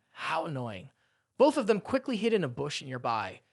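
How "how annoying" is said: low, soft annoyed mutter; understated, lowered aside. A narrator's reading. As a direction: grumble it quietly to yourself.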